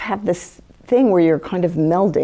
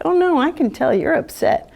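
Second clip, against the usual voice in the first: high-pitched fussing sympathy; concerned empath; 9 semitones higher than usual. Acted. Empath to someone close who hides feelings, concerned. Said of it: "you're like".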